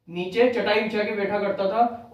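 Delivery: slow it down so the fact sinks in; slow emphatic repeat. Shown as a demonstration. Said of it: "teacher repeats fact for emphasis".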